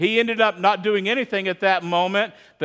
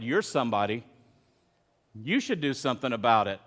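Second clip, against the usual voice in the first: hushed echo of a voice; 8 semitones lower, 6 dB quieter than usual. Retold or imitated. Remembered voice echoing in head.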